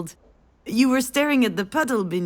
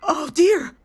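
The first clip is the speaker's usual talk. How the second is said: put-on screaming toddler; 8 semitones higher, 4 dB louder than usual. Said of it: "you started screaming".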